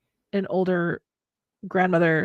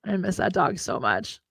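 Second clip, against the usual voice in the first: holding back tears, words thin out; trying not to cry; 5 dB quieter, much slower than usual. Real, not acted. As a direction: voice catching, breath failing on the word. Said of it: "I'm trying not to cry".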